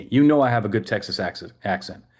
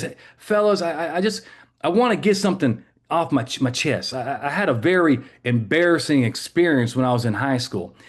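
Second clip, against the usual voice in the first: put-on old cop voice; 5 semitones higher than usual. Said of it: "this retired cop, you know, he says".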